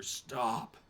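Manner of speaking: sharp loud call of "Stop!" from the trees; commanding shout. Acted. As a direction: bark "Stop!" to halt the fight. Forest figure halts the attack.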